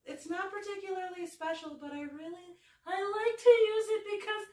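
put-on high, breathy girly voice, kept fairly contained; Cat Valentine. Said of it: "This is the voice".

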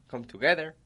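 together lifted up at the end; rising tune. Shown as a demonstration. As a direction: say come together as a question. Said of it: "You see?".

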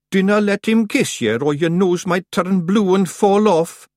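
high, loud Scots chirp; cheery little Scottish clown; cheerful. A narrator's reading. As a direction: blurt it merrily, drawing out the end. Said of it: "said Daft Woolly cheerfully".

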